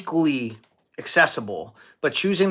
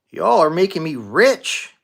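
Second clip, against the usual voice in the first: light Southern twang on y'all; a playful hint of a Southern accent; 3 semitones higher, 4 dB louder than usual. Streamer jokes about getting rich, light Southern accent. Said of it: "It was Southern accent".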